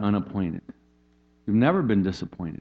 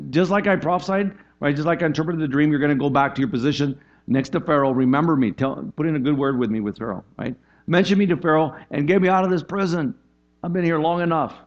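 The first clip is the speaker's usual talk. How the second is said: imitating Joseph's plea; 5 semitones higher, 3 dB louder than usual. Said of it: "He says".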